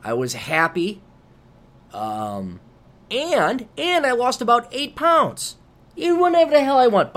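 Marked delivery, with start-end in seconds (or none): 6.0-7.1 higher and louder, savouring whatever; gleeful exclamation. Real, not acted. Gleefully repeating the joy of eating anything.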